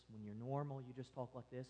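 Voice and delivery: very low, near-murmured monotone; unchanging normal demo. Shown as a demonstration. Preacher parodying normal talk with no changes, hushed monotone. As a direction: keep it tiny and even, no changes in anything. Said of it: "There's no changes in anything".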